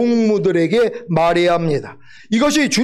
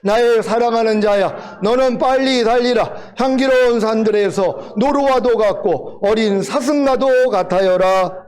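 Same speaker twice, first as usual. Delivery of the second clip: scripture reading aloud. Real, not acted. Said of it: "다 같이 읽습니다".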